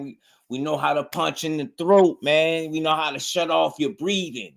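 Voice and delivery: high, cheerful mock tough talk; friendly threat impression. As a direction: sweetly brag about hurting him.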